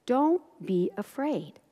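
slow, soft, measured words; gentle reassurance. Acted. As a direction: reassure softly, one word at a time. Voicing Jesus reassuring the father.

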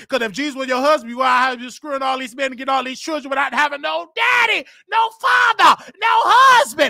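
loud, high shouted rebuke; heated shouting. Real, not acted. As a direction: build to a high, indignant shout. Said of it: "shouting, that fake shouting you be doing".

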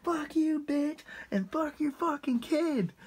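lightly voiced drunk buddy, a bit drawn out; drunk friend. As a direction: relish the line, replaying it slow and high. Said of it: "I'll never forget. He was like".

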